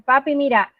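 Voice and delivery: elefante stretched out slowly, then fante slow; slow word segmenting. Shown as a demonstration. Therapist splitting elefante for a child: slow, drawn-out syllables. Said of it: "uno puede empezar a trabajar".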